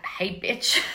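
rude greeting through a laugh; cheeky rude greeting, laughing. Pretend.

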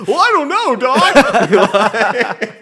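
high, loud slack-jawed whine; Marty McFly voice. Retold or imitated. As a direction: play it dopey and drawn out. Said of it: "Marty McFly going".

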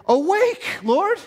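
loud, high cry upward; screamed plea. Acted. Preacher voicing the psalmist to God, screamed plea. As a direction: shout it to rouse a sleeper. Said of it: "the psalmist screamed".

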